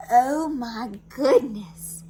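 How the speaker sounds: loud, slow gasp of surprise; astonished. Acted. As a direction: draw it out in shock. Husband astonished.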